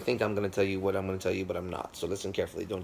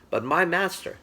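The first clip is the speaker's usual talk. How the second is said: slow, higher, louder, savouring each phrase; reverent emphasis; 4 semitones higher, 3 dB louder, slower than usual. Retold or imitated. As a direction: speak of the master with awe. Student explains master's sacred playing.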